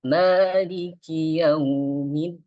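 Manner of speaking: Maliki yaumiddin recited with a melodic rising tune, slow; wrong tuneful reading. Shown as a demonstration. Teacher demonstrates the wrong melodic recitation. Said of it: "jadi di sini nggak boleh".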